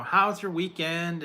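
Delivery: slow, high, drawn-out question; mock chatty coworker. Streamer mocking office small talk, slow high voice. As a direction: stretch it like nosy office chatter.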